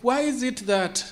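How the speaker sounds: real excitement breaking through as the questions build; heated, insistent repeated why; getting excited. Real, not acted. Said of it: "sorry, I'm getting a little bit excited".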